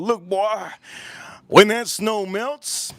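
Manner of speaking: high-pitched imitated thug, drawing it out; put-on street tough building a warning; Detroit thug. Thug warning about melting snow, imitated high, insistent voice. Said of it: "one of the thugs from Detroit".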